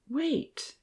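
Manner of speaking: a quick hushed whisper. A narrator's reading. Evan hushing the professor, whispered. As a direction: hush him with a sharp whisper. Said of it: "Evan whispered".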